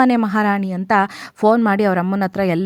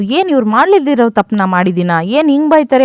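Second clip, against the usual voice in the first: retold anger; 3 semitones higher, 3 dB louder than usual. Young man sulking after being scolded by elders, mildly retold anger. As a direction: grumble in protest, lightly acted. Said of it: "ಹಂಗೆ ಕೋಪ ಮಾಡ್ಕೋತಾ".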